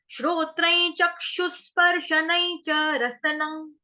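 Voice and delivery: verse read slowly; slow recitation. Shown as a demonstration. Teacher reciting the verse for the class, slow. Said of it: "उच्चारण देखो".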